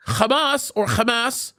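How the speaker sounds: Hamas with a guttural kh, xə-mas; Hebrew pronunciation. Shown as a demonstration. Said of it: "that's how you say it in Hebrew".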